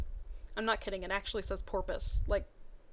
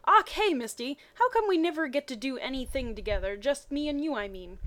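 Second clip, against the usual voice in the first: sad voice; 4 semitones higher, 3 dB louder than usual. Acted. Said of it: "Ash asked in a sad voice".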